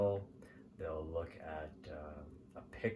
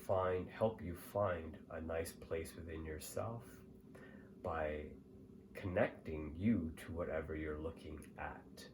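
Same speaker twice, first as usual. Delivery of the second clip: calm, measured meditation guide; guided meditation; 3 dB quieter than usual. Acted. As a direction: lead the listener gently, pausing between phrases.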